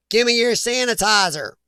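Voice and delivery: light, put-on Southern US accent. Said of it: "why I did Southern accent".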